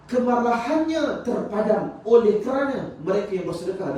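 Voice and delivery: high, emphatic sermon delivery; impassioned preaching. Acted. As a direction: preach it out, stretching the key words. Preaches a verse and its meaning.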